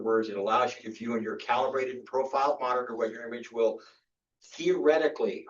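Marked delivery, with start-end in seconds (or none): 4.5-5.5 "theoretically" leaned on, a touch higher; a teacher pointedly stressing "theoretically"; emphasis on theoretically. Shown as a demonstration. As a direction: stress the word "theoretically" with a falling tune. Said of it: "I'm emphasizing the word theoretically".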